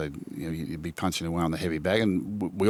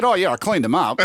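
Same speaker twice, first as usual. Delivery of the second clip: quoting Jack through a laugh, a bit higher and louder; laughing quote; 11 semitones higher, 7 dB louder than usual. Retold or imitated. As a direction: laugh while you brag on his behalf.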